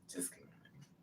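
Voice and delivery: hissed low whisper, all breath; whispered threat. Retold or imitated. Demanding her money back from Jose in a whisper.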